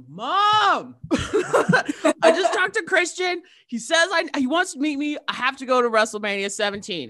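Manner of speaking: high, loud call to a parent; retold excited kid. Child telling mom about idol's invitation, excited gushing. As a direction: plead and gush in a kid's high voice.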